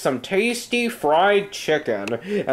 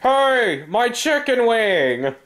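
startled yelp; 6 semitones higher than usual. Acted. Hit by thrown chicken.

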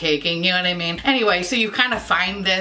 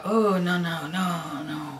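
hushed refusal; 2 semitones lower, 5 dB quieter, slower than usual. Retold or imitated. Recoiling from remembered bad bronzer.

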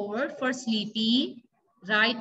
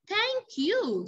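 monster voice; 8 semitones higher than usual. Acted. Teacher voices the happy monster.

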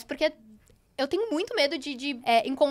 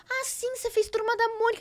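retold recognition; 8 semitones higher than usual. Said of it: "E aí ela falou".

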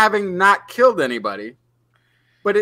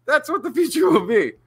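1950s narrator; 5 semitones higher than usual. Pretend. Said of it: "that fun oldie time radio voice".

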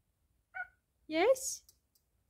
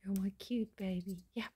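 whispering; 6 semitones lower, 10 dB quieter than usual. Real, not acted. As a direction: breathe it out, no voice. Whispering to the pet.

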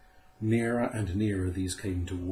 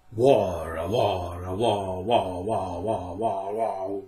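loud wailing owl cry of war; eerie owl wailing war; owl's wail; 4 dB louder, slower than usual. A narrator's reading. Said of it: "wailed the horned owl".

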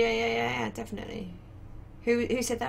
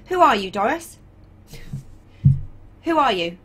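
clear loud command; 6 dB louder than usual. Real, not acted. Voice command to ship AI.

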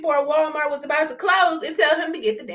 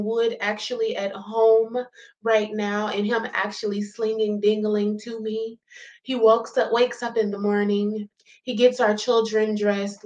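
a lower, sarcastic prayer voice; mock prayer; 4 semitones lower than usual. Vlogger voicing Peach thanking the Lord, mock prayer. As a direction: pray with mock gratitude to the Lord. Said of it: "she said".

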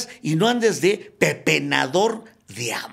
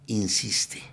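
sly inner whisper; 8 semitones lower, 7 dB quieter than usual. Retold or imitated. The inner voice urges him.

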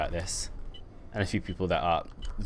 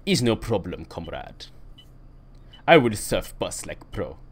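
a light, hammed-up mock Russian accent, slower at the end; lightly put-on Russian accent; 3 dB louder, slower than usual. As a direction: play a jokey Russian comrade, half-hearted Russian accent. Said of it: "Russian accent".

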